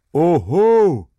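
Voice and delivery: high, swelling protest; loud outcry. A narrator's reading. A dozen workers protest Hauke's threat, loud outcry. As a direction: burst out in loud objection. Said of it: "erscholl es".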